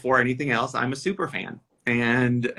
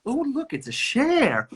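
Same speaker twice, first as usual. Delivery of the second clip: imitating Rue McClanahan; 13 semitones higher than usual. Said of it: "she was looking at all the drag queens".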